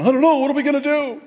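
high, rushed, flustered panic; hammed-up helpless worry at top pitch; mock fretting God. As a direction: fret frantically, words tumbling out. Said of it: "pacing back and forth".

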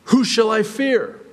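high, loud taunting challenge; a defiant psalmist taunting his enemies. Retold or imitated. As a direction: throw it out as a dare. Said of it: "he's taunting in asking".

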